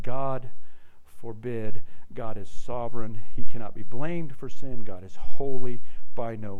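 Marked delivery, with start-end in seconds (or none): 0.0-1.8 emphatic, forceful "God ... forbid". Retold or imitated. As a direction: FORBID said loud and firm after a pause. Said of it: "responds again with that same emphatic".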